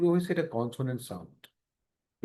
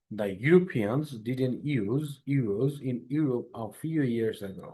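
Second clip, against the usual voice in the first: very slow, word-by-word model reading; carefully paced drill sentence; 2 semitones lower, much slower than usual. Shown as a demonstration. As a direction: read it out slowly so students can follow. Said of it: "Like, louder, please।".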